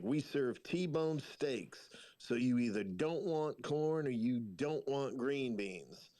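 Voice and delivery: put-on old Southern diner lady. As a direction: drawl out the choices like a weary diner waitress. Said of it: "She's like".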